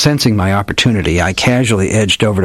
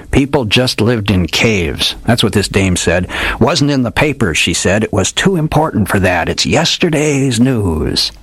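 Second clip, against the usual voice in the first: put-on hardboiled old detective; 3 semitones higher, slower than usual. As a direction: play the old gumshoe spinning a dramatic yarn. Old detective tells his tale.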